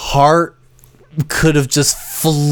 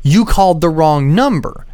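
indignant correction; 5 semitones higher than usual. Retold or imitated. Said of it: "I'm like".

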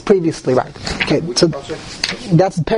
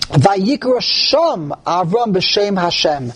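slow recitation with "Sham" held out; emphasis on Sham; slower than usual. Shown as a demonstration. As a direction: read slowly, setting "Sham" apart with weight. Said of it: "there's an emphasis on the word Sham".

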